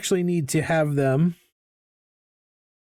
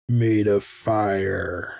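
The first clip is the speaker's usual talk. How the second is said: dramatic pronouncement; 7 semitones lower, much slower than usual. Pretend. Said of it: "And just be like".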